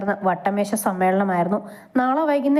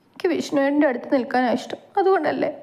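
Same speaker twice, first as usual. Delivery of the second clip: sobbing; 5 semitones higher than usual. Acted. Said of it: "പിന്നെയും വിങ്ങിപ്പൊട്ടുന്നുണ്ടവൾ".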